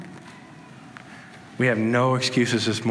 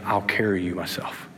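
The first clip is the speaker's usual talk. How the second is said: softer, lower comforting promise; hushed, lightly voiced Jesus comforting a weary believer; gentle reassurance; 3 semitones lower, 3 dB quieter than usual. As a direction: speak it like a tender promise to someone exhausted.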